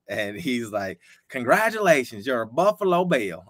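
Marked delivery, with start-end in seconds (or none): 1.3-3.4 lightly voiced Bills official announcing the pick, a bit higher; a hint of the caller's voice, proud and formal; Dwight Adam impression. Bills official telling the draftee the news, lightly imitated. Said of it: "I would do him injustice, but I'm gonna try anyway".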